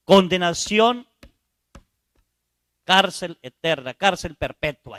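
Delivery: proclamado fuerte y lento, como un juez; sentencia solemne. Acted. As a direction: dicta la condena con peso. (el juez pronuncia la condena, fuerte y solemne)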